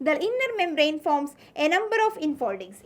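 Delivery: slow, deliberate textbook dictation; teacher dictating notes slowly. Shown as a demonstration. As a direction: read it out word by word for notes.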